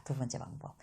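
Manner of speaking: whispered section heading. Real, not acted. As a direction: breathe the words out. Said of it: "속삭이는 소제목". (속삭이듯)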